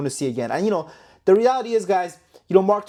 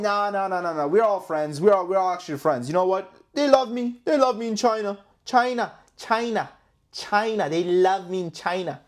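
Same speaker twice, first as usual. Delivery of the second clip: badly faked presidential impression; half-hearted imitation, drawing out the country name; Donald Trump; 3 semitones higher than usual. YouTuber plays the president claiming China loves him, clumsy impression. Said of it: "I can't do a fucking Trump impression".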